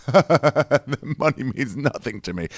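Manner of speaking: slow, drawn-out wealthy brush-off; stretched-out, hammed-up nonchalance; mock lofty indifference. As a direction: play someone grandly above money. Quoting a man boasting about money.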